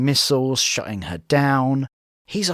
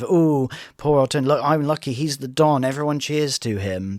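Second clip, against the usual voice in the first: mock passive-aggressive sneering imitation; sarcastic; 2 semitones higher than usual. Woman mimicking a partner's digs at Tony, passive-aggressive. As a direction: imitate someone feigning pity with mild sarcasm. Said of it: "she's being sarcastic".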